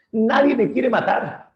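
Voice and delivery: high, loud wail for help; panicked cry. Acted. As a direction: cry out to his brothers in panic. Blinded cyclops calls brothers. (el cíclope herido pide ayuda a sus hermanos, gritando agudo)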